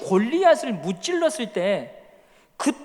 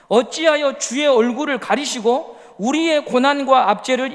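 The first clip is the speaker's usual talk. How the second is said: psalm read aloud. Acted. Congregation reads psalm.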